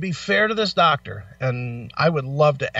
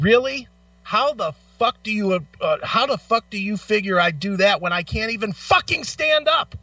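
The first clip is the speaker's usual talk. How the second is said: higher, indignant retort at the doctor; angry retort; 5 semitones higher than usual. Retold or imitated. Patient snapping back at his doctor, indignant and angry. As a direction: fire it back at him in disbelief. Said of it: "I literally looked at him and I said".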